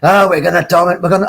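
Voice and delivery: mock Liverpool fan in Scouse; Scouse accent. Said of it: "I'll do it in a Scouse accent for you".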